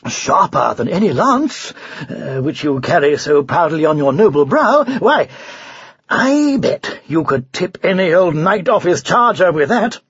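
lightly voiced, gushing knight; admiring knight. Knight praises the unicorn's horn, effusively admiring. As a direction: build the flattery with emphatic bursts.

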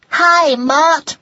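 high, loud youngster's greeting; cheeky cry. A narrator's reading. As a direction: call it out brightly in passing. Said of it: "they cried as they dashed by".

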